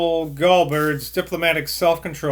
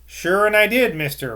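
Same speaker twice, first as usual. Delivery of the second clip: old man lightly voiced in mixed London and Somerset; higher, louder opening, London tinged with broad Somerset; hint of muddled London-Somerset dialect; muddled London-Somerset accent; 6 semitones higher, 5 dB louder than usual. A narrator's reading. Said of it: "confused the new London accent of his childhood".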